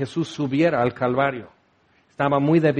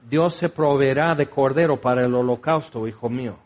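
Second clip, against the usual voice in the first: tender father; 5 semitones lower than usual. Retold or imitated. Abraham answers his son tenderly. (padre que tranquiliza a su hijo, voz suave y baja)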